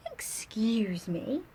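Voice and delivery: slow, breathless whisper; polite little cricket. Acted. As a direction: clear a tiny throat, then whisper. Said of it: "coughed a cricket".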